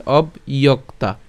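"অবইয়ক্তা" split as ob, iyok-ta; "অবইয়ক্তা" in separated syllables; said separately. Shown as a demonstration. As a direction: break "অবইয়ক্তা" after the ob. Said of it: "যদি আলাদা করে উচ্চারণ করি".

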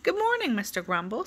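bright hello that jumps up high; cheery Mister Happy. Acted. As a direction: greet him like the happiest fellow around. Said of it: "said Mister Happy".

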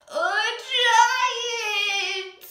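high loud burst; sudden loud exclaim. A narrator's reading. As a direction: blurt it out as a shock. Sudden giant reveal.

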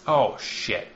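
envoy's blunt curse at a moderate lift; mock envoy line. Hawthorne cursing at the speaker, a blunt mock curse. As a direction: blurt it as the envoy. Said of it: "No, he does not say".

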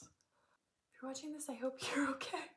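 hushed aside to the editor; laughing whisper. Real, not acted. Addressing missing editor.

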